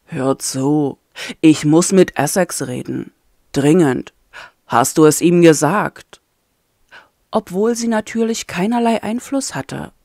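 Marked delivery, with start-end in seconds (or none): 0.1-6.2 low, firm, weary prisoner; a hint of a tired, stubborn captive; lightly voiced captive man. Ayem's voice held in story.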